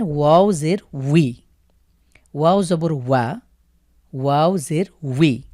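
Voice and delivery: breathy whisper, no voice at all; whispered demo. Shown as a demonstration. Teacher to Quran students, whispering the letter drill. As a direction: whisper the syllable to yourself as you show it. Teacher quietly rehearses the syllable.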